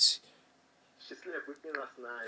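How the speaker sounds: slow, deliberate taunting repeat. Acted. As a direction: stretch every word to wind him up. Repeating his claim to provoke.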